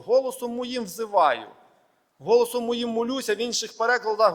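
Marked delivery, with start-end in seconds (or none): 0.0-3.3 голосом pressed at the start of each line; stress on голосом. Shown as a demonstration. Preacher stressing голосом to the congregation. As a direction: lean on голосом both times. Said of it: "два рази якби наголошує".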